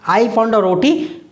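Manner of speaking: I found a रोटी said slowly, word by word; slow dictation. Shown as a demonstration. Teacher repeating the example sentence slowly for students to copy. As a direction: spell it out slowly for the class.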